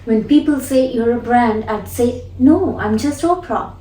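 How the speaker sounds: lightly mimicking Oprah, "No" stressed; shadowing Oprah. Shown as a demonstration. Teacher shadowing Oprah's line, stressing "No". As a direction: echo her with weight on "No". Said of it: "the focus here goes on no and the tone".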